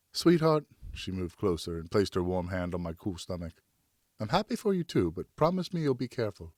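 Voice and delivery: wife's voice. Acted. Wife speaks in bed.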